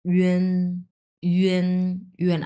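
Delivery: ইউএন with a tight rounded ü onset; pursed, held ü-en for ইউএন; pressed pronunciation. Shown as a demonstration. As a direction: press hard through the mouth on ইউএন. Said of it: "অনেক pressure দিচ্ছি".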